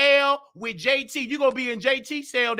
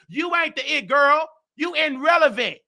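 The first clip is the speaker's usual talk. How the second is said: roasting rival; 3 semitones higher than usual. Real, not acted. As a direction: tear into her with scorn.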